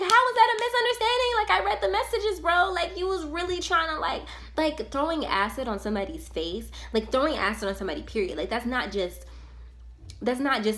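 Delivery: spazzing. Retold or imitated. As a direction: rant it out high and rapid, losing it. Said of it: "I was spazzing".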